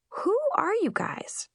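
timid whispered question. Acted. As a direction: ask it in a nervous whisper. Confused girl asks strangers.

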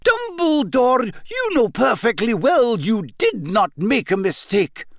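sharp, high, indignant scolding; angry. A narrator's reading. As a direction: scold him, clearly annoyed. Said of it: "said Professor McGonagall angrily".

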